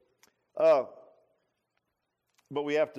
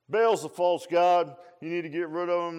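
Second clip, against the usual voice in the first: mock denunciation; 3 semitones higher, 8 dB louder than usual. Elijah imagined denouncing Baal.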